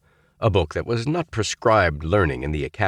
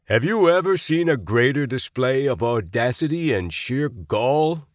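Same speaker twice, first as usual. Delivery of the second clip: demanding; 7 semitones higher than usual. A narrator's reading. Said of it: "he demanded".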